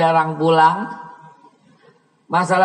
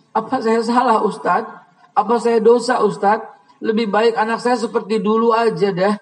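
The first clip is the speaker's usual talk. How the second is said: pleading mother; 6 semitones higher than usual. Retold or imitated. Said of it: "dengan linangan air mata".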